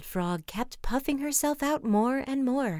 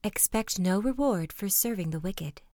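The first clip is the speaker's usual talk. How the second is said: snarling wolf; 3 dB louder than usual. Acted. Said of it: "snarled the wolf".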